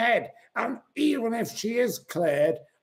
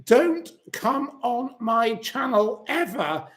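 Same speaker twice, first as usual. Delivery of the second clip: angry dismissal; 3 semitones higher than usual. Real, not acted. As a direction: spit it out at them twice. Telling commenter to leave.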